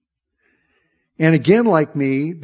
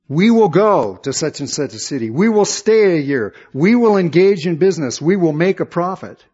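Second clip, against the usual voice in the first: a touch of a boastful planner, a little louder; 3 semitones higher, 6 dB louder than usual. Retold or imitated. Preacher mimicking the proud planner, mildly boastful. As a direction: say the plans like a proud man sure of his year. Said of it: "what James is saying here".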